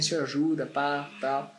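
man praying quietly to stay calm; quiet prayer. Retold or imitated. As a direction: pray under your breath. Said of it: "até orei a Deus".

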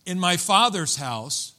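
"father's" lifted and drawn out, then falling; stress on FATHER'S. Acted. The prodigal son thinks to himself, stress on "father's". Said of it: "listen how he says it".

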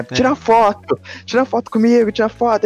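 crazy fan. Retold or imitated. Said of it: "aquela coisa de fã louco".

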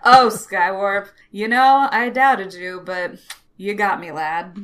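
a hint of a genial old-timer; easygoing old man. Galvatron forgiving Skywarp, lightly played easygoing old man. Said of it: "easygoing old racist man".

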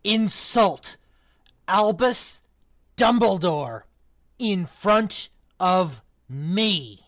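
loud, slow, outraged roar; thundering outrage. Acted. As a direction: roar each word, deeply offended. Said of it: "he thundered".

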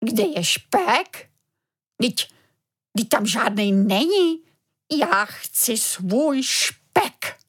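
a father's voice catching with dismay; voice cracking. Acted. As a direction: let the voice crack in disbelief. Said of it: "hlesl a přeskočil mu hlas".

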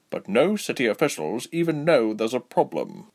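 lightly voiced, measured elf soldier; Basim. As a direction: explain gravely, with a slight character voice.

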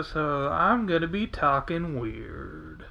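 talking after wisdom teeth. Real, not acted. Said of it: "wisdom teeth pulled out ... talking weird".

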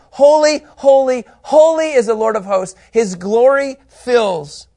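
loud, high cry of praise; ringing, exalted shout of worship; seraphim's proclamation. Acted. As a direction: proclaim it slowly and grandly, far above normal pitch. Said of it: "here's what they're saying".

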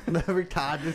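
put-on slow Boston accent with the r dropped, laughing; mock Boston accent. Mimicking a friend's film title, laughing Boston accent. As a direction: stretch it out in teasing Boston vowels. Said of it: "filthy Boston accents".

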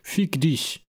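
put-on fick dich with American accent; German swear in American accent. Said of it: "mit diesem typisch amerikanischen Akzent".

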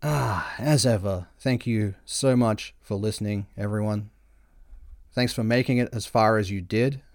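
creaky, sore-throated vocal fry. Real, not acted. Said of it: "If, if I've got that Kardashian vocal fry".

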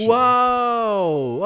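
loud, high impressed wow. Real, not acted. Exclaims at reveal.

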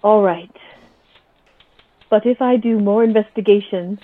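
measured threat, slowing on key phrases; a touch of cold anger, deliberately paced; restrained anger. Acted. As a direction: warn him firmly without raising the voice. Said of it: "or angry now, and I say".

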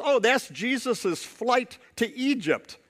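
lightly voiced little girl, matter-of-fact. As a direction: spell it out slowly like a proud kid. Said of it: "the little girl goes".

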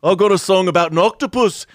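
hammy Scouse bickering; mock band banter. Mocking a band squabbling in Liverpool accents.

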